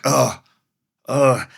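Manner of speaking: short "ugh" of carrying a burden; weighed-down groan. Acted. Showing listeners how guilt weighs, weighed-down groan. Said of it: "you know how it feels".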